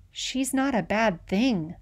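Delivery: soft, slow, breathy defiance; whisper. A narrator's reading. Moose defending his sister to the officer in a slow whisper. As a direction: barely say it, scared but stubborn. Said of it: "I whisper".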